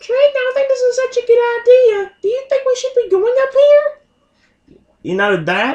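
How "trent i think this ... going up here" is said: very high, squeaky creature voice, squeaked out. Speaker shows off doing Charmander speaking English, Charmander voice. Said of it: "that kind of squeaky voice that he has".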